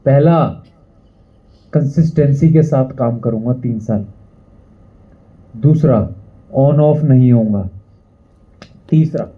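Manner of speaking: low, measured vow; solemn pledge. Acted. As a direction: recite it low and deliberate like an oath.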